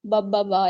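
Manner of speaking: short, separate "ब, ब, ब" sounds; phonics letter sound. Shown as a demonstration. Teacher showing how to teach B for bat, phonics "ब" repeated. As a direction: sound out "ब" three times as a bare letter sound. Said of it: "इस तरह से करके सिखाएं".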